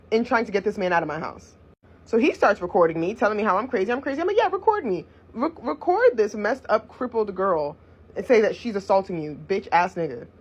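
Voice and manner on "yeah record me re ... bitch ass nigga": defiant retort. Retold or imitated. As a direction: dare him, retelling the argument. Acts out her defiant retort to him.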